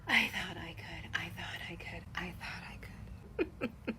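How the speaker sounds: breathless fading whisper; spent train imitation. Husband mimics wife as the little train, fading spent whisper. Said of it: "It sounds like you when we're in the bedroom".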